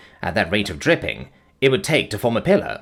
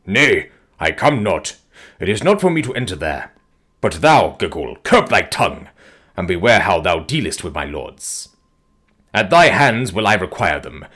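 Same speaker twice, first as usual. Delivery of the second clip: stern warrior; 3 semitones lower than usual. Acted. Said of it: "Invadus frowned as he answered".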